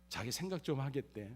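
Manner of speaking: normal talking voice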